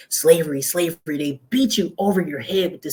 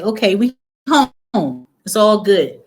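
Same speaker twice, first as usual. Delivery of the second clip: joyful relief; 3 semitones higher, 7 dB louder, slower than usual. Retold or imitated. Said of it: "I was like".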